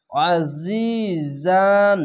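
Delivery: আজিজান very slow, the আ squeezed in the throat; throat-pressed ain. Shown as a demonstration. Teacher demonstrating the heavy ain in আজিজান. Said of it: "গলা চিপে পড়বেন একটু".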